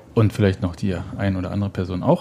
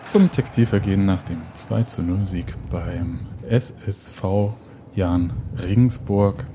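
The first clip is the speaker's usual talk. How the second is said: kindergarten teacher voice; slower than usual. Real, not acted. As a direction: greet them like a kindergarten class. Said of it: "wieso klingst du wie eine Kindergärtnerin?". (Kindergärtnerinnen-Stimme)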